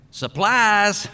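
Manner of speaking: high, loud burst of a punchline; spring the word out at him; sudden shout. Retold or imitated. Worker leaps out of the thicket at the boss, loud sudden shout.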